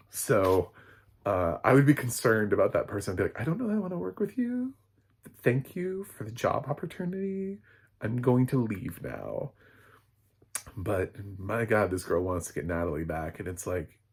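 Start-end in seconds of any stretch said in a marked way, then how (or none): 3.4-9.5 high-pitched, cautious mock politeness; high, tentative brush-off, slowing at the end; nervous polite refusal. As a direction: back away politely in a small high voice. Acted polite refusal to villain.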